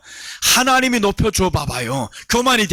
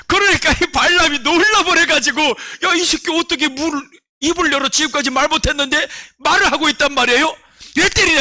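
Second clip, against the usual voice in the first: excited storytelling; 8 semitones higher than usual. Acted. Balaam shocked, preacher excited.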